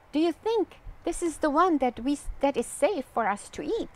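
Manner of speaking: fast, eager asking; quick worried question. Acted. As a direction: rush the question out. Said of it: "says Bo".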